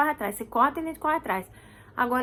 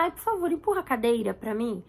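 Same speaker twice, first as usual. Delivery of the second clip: mock polite request. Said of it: "A gente não fala".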